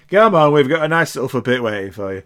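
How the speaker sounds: workaday demon, everyday pitch; nine-to-five demon. Shown as a demonstration. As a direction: say it like a bloke on a routine shift. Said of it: "guys just doing the nine-to-five".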